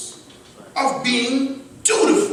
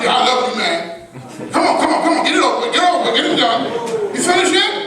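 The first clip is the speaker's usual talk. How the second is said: impatient brush-off; 4 semitones higher, much faster than usual. Shown as a demonstration. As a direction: hurry him along, impatient. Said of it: "You wouldn't like that".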